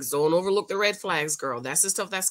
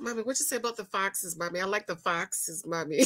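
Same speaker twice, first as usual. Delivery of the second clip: imitating Liza; 7 dB quieter than usual. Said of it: "she said".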